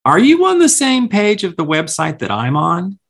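can't believe it; incredulous. Retold or imitated. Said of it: "finally I went".

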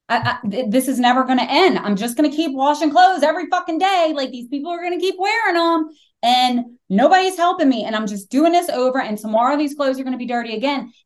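high, fast, half-sobbed panic over the laundry; retold frantic crying. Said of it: "I start hysterically fucking crying".

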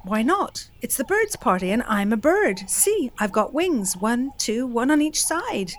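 eager Bat. Acted. Bat argues with Vulture.

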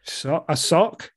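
slow sheepish whisper; whispered guess. Real, not acted. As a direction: breathe it out like a guess.

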